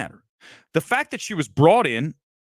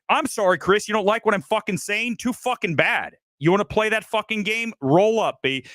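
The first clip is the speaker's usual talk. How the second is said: higher, combative taunting of Chris; heated callout; 6 semitones higher than usual. Real, not acted. Streamer taunting Chris Gore live, heated and combative. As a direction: throw down the challenge, fired up.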